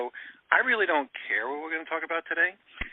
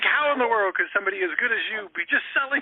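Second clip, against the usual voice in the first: retold mock yell; 9 semitones higher than usual. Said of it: "I took the next ten minutes yelling at her".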